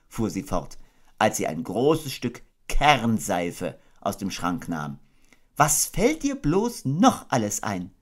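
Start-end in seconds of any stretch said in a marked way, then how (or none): 5.5-7.9 high, gentle mother kangaroo voice; motherly Kanga. Acted. Kanga tucking her baby into bed, motherly. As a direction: coo it like a doting mother.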